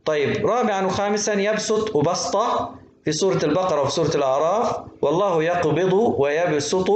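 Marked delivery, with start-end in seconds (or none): 5.0-6.9 slow recitation, ويبسط with a plain "s"; pure seen. Shown as a demonstration. Teacher reciting from al-Baqara, pure seen in ويبسط. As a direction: say ويبسط with seen, never sad. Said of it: "تقرأ بالسين".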